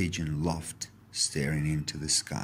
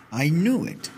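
high, loud burst of delight; a sick old man suddenly cheered; glad Grandad; 9 semitones higher, 6 dB louder than usual. A narrator's reading. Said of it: "said Granddad".

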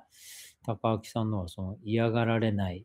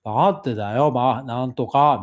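mock Takaaki gripe; 5 dB louder than usual. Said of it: "みたいなこと言って".

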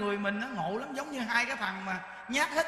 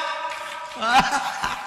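breathy laugh; 5 dB louder than usual. Real, not acted. Laughs after punchline.

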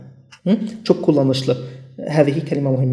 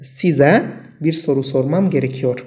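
very slow, words set apart; slow dictation; much slower than usual. Shown as a demonstration. Teacher reading the example sentence to students, very slow. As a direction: read it slowly so learners can follow. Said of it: "يعني".

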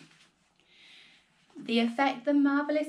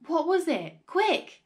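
much higher, louder impatience; father demanding the answer, much higher and louder; urgent demand; 8 semitones higher, 5 dB louder, slower than usual. A narrator's reading. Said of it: "said George".

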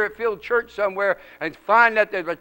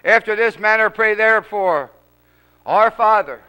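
measured, emphatic scripture recitation; leading prayer; 5 dB louder than usual. Acted. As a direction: lead the congregation through it phrase by phrase. Leads the Lord's Prayer.

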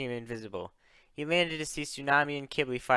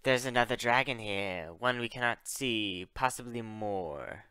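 hissing voice; 2 semitones lower than usual. Acted. Enemy dragon senses an unseen intruder, hissing voice. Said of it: "He heard a hissing voice say".

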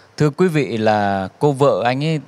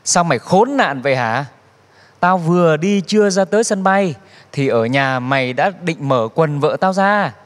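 mild angry yell; 4 semitones higher than usual. Retold or imitated. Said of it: "quát lên".

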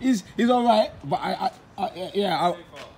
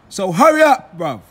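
calling out; 6 dB louder than usual. Real, not acted. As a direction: urge the driver on loudly. Calling at his driver.

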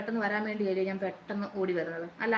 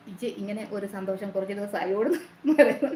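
louder, voice breaking into tears; crying; 5 dB louder than usual. Real, not acted. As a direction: read it again while crying. Rereading comment, voice breaks.

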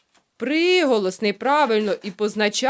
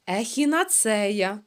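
plain. Shown as a demonstration. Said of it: "Повторили".

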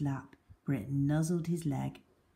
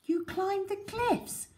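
hint of respect. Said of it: "with a hint of respect".

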